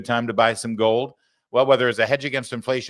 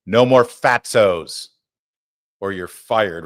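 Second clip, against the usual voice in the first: Trump impression; 2 semitones lower, 6 dB louder, slower than usual. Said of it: "the president had a message".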